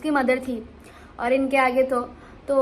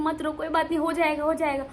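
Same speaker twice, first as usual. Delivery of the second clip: soft comforting; 4 dB quieter than usual. Retold or imitated. Comforting crying child.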